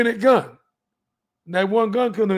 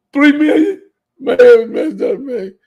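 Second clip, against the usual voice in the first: a real catch of tears in the voice, higher and louder; choked up; 6 semitones higher, 7 dB louder than usual. Real, not acted. Telling the crowd about three million, choked up. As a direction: near tears as it hits him again. Overwhelmed by the money offer.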